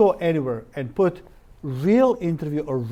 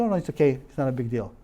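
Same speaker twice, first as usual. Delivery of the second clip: calm reassurance; 4 semitones lower, faster than usual. Shown as a demonstration. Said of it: "you need to calm down and say".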